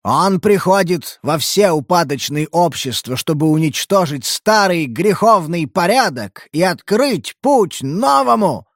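a touch of a raving street prophet; slow, rising preacher's rant; wild unhinged ranting. Acted. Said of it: "орал безумец".

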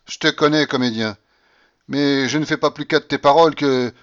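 loud, high, scornful babouchka voice; mock them all like a triumphant old matriarch; imperious old grandmother. A narrator's reading. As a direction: grandmother scoffing at heirs waiting for her death. Grandmother dismisses De Griers.

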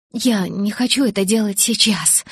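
a hint of forced firmness; trying to sound firm. Bella tries to stop Edward, a touch of firmness. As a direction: try to put your foot down. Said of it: "Я постаралась говорить решительно".

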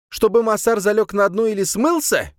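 outraged high question; indignant. A narrator's reading. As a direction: Soliman challenging Adamsberg's choice. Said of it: "возмутился Сулейман".

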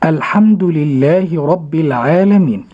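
slow, measured tajweed recitation; Quran recitation. Acted. Host reciting the second verse of al-Fatiha, slowly. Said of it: "ننتقل إلى الآية الثانية".

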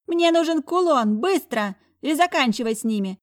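high, loud commanding shriek; shrill demand. Acted. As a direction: bark the order high and loud. Villainess ordering her thug.

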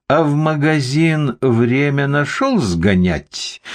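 slow, high, needling question; menacing suspicion. A narrator's reading. Investigator challenges the guard about shopping, menacingly. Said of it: "нехорошо прищурился Зоркин".

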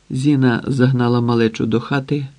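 ordinary delivery, nothing marked

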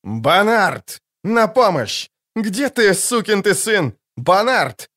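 high, urgent shouts; yelling for help. Acted. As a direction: call for help into the fog. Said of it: "заорал в туман Скеллен".

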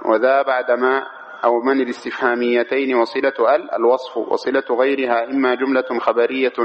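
even, monotone recitation of a grammar text; reading a text aloud. Acted. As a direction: read it out steadily, every case ending voiced. (قراءة المتن برتابة مع الإعراب)

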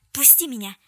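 loud, blurted demand. A narrator's reading. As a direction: fling the words out as she struggles. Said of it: "выпалила она". (громко выпалить)

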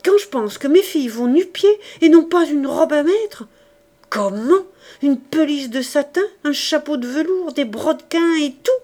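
loud, high, seething voice; a jealous mother raging at her husband, loud and high; furious rant. Acted. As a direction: spit out her jealous outrage. Enraged wife rants about rival.

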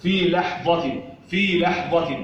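لحظة with light "lah" and heavy ظ; emphatic ظ only. Shown as a demonstration. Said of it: "الضاء الوحيدة هي المفخمة". (لحظة بتفخيم الظاء وحدها)

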